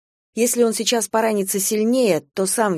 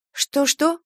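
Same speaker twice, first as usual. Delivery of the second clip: puzzled question; 8 semitones higher than usual. A narrator's reading. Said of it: "переспросила я".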